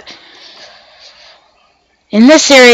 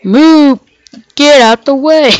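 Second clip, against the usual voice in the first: moo pun; 6 semitones higher than usual. Pretend. Gamer ordering a cow out of the way, mooing. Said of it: "See what I did there? 'Cause moo".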